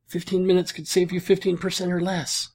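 soft, small, fading little creature voice; tiny dying lizard voice. Retold or imitated. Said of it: "held up its little hand and said".

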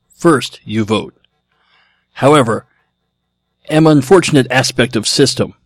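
choppy robot caveman, pushed out; Neanderthal robot voice. Pretend. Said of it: "Let me try this again".

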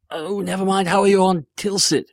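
high-pitched, put-on customer voice; high, fussy comic shopper; cheese shop customer. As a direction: play an unbothered customer politely trying the next order.

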